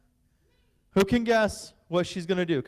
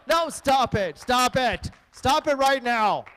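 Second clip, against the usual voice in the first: higher, playful fake stop; mock protest; 5 semitones higher, 3 dB louder, slower than usual. Pastor cueing the crowd to cheer, mock protest. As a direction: pretend to beg them to stop. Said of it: "When I say come on, that means more".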